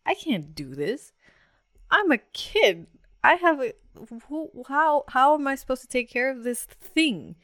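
high, loud, stumbling new-parent panic; retold panic. New mom facing her newborn's cry, acted-out panic. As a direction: act out rising panic, tripping over the question. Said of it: "panic seeping in".

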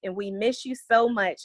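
put-on reading a child's letter. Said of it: "Another one says".

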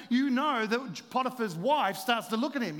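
ordinary delivery

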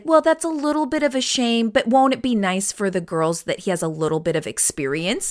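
lightly voiced shrugging elder; airy, dismissive tone; mock dismissive voice. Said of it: "And it was always like".

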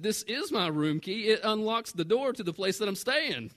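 retold indignant protest, stretching the key words; agitated. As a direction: insist as if it's obvious, mildly worked up. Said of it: "I'm kinda getting agitated at this point".

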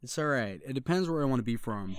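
casual, easy American accent; put-on American accent. Shown as a demonstration. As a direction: pass yourself off as American. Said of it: "you're really good".

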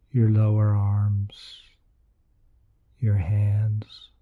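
guided meditation. Acted. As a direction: lead them gently into relaxation.

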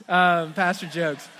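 laughing through pastor jokes. Real, not acted. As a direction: chuckle at your own joke, slowly. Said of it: "That's pastor jokes".

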